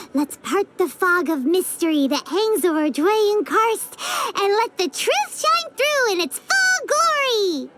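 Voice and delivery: playfully grandiose, slowing into the last phrase; mock grand proclamation. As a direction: declaim it like a storybook hero. Paimon makes a grand declaration.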